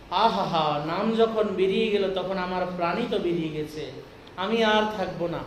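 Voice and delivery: low, soft, sorrowful sigh of a dying devotee; mild grieving lament. Retold or imitated. King tells his wife, low and grieving. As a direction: let it sink low, as if the life is leaving.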